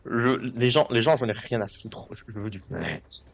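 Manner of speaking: lightly done Louis de Funès impression, greedy and blustering; a hint of a spluttering de Funès; mild mock de Funès rant. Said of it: "en mode Louis de Funès".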